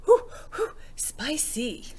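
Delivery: high loud breathy whews, then spicy; burning mouth. Acted. Little Dragon after eating chili peppers, high panting whews. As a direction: fan the burn in your mouth.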